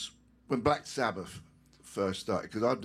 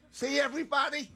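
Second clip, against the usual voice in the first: proud showing off; faster than usual. Real, not acted. Showing off leg tattoo.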